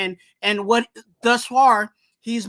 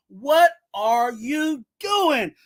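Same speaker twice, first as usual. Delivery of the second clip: slow, drawn-out exasperated yell; exasperated shout; much slower than usual. Real, not acted. Fan calling out his linebacker, slow exasperated shout. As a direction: stretch it out in disbelief.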